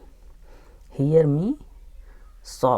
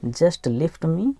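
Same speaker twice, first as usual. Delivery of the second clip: slow reading model; 2 semitones higher, much slower than usual. Shown as a demonstration. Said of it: "teacher models the phrase slowly".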